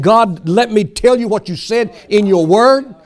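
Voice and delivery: insistent, bold mock prayer; acted boldness, claiming what is owed; bold demand. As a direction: remind God firmly, imitating a confident believer. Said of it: "place demands on the Word".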